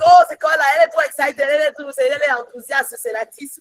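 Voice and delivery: quick exclamations of people remarking on her zeal; onlookers commenting. Acted. People remarking on an enthusiastic believer, animated. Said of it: "les gens vont dire".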